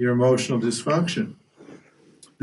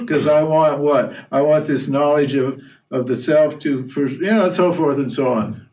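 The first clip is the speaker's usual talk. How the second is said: Krishna explaining; 3 semitones higher than usual. Retold or imitated. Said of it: "he says".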